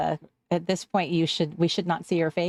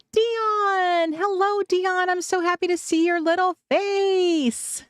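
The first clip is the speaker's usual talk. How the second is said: high, gushing hello, much higher; squealy delighted greeting; 9 semitones higher, slower than usual. Real, not acted. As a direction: squeal the name like a long-lost friend. Squealing greeting to returning viewer.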